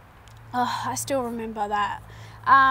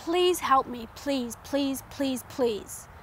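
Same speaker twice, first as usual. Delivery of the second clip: begging; slower than usual. Retold or imitated. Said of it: "I was, like, begging her".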